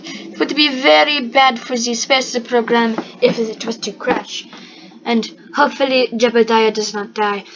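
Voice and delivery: light put-on Russian accent, formal and stiff; half-hearted Russian accent; mock Russian accent. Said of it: "that Russian accent is being very annoying".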